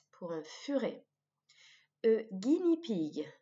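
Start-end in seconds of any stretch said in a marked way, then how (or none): 2.0-3.3 slow model pronunciation. Shown as a demonstration. Teacher giving vocabulary to repeat, slow model pronunciation. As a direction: say "guinea pig" slowly for learners. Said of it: "de répéter le vocabulaire après moi".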